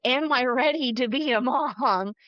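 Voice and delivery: half-laughing worried question; laughing through it. Retold or imitated. New mom asking herself if she's ready, laughing. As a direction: laugh the words out as you ask. Laughing at her own fear.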